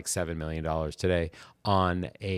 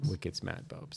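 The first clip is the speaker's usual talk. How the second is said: put-on Boston accent, dropped R in smat; a hint of a Boston accent on Wicked smat, no R; lightly put-on Boston accent, smat said without the R; mock Boston accent; 9 dB quieter, slower than usual. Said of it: "I can't do a Bostonian accent".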